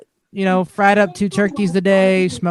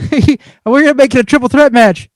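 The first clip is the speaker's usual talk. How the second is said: lightly imitated British accent, pitched up; William Regal, British accent; 5 semitones higher, 4 dB louder than usual. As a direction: mimic a British wrestling boss's accent. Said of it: "in his British accent".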